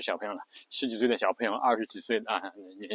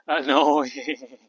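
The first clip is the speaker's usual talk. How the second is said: louder creaky fry, bored tone; annoying vocal fry; 5 dB louder than usual. Shown as a demonstration. Teacher shows the annoying fry in one word. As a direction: drawl it like you can't be bothered. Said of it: "非常烦人".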